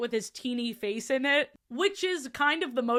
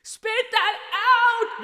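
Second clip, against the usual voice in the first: slow, loud laughing yell; janitor yelling; 10 semitones higher, 7 dB louder, much slower than usual. A narrator's reading. Janitor yelling at Junie B to spit out candy, loud. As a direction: bark it like a startled janitor. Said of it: "the janitor speaks for all of us".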